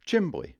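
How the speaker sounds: Chimbly, high, SHIM-blee; Maine chimbly. Shown as a demonstration. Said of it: "it's chimbly".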